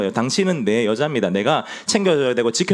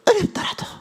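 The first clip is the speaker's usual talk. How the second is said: squeaky, much higher mock elder voice; elder impression. Shown as a demonstration. Preacher leads the congregation in aping Elder Baek, high squeak. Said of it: "백은철 장로님 따라하시는 겁니다".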